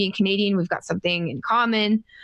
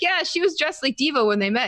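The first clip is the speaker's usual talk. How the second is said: higher-pitched, eager oversharing; nervous rambling; 6 semitones higher than usual. Retold or imitated. Fan keeps chattering about brother's girlfriend, mildly nervous. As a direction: imitate yourself babbling on at an idol. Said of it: "I talk a lot when I'm nervous".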